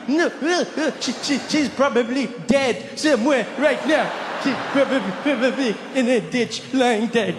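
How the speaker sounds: high, stammering mock-tearful child; hammed-up little boy choking out words between sobs; crying kid. Forgotten schoolboy reassuring his teacher, mock crying. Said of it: "ten years old again, just like".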